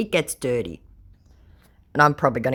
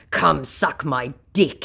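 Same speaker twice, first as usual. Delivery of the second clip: mock scammer; slower than usual. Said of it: "he said".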